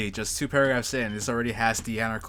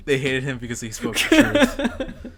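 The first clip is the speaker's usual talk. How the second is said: slow words broken up by real laughter; amused, laughing through the line; 4 dB louder than usual. Real, not acted. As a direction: crack up while saying it. Cracking up at the passage.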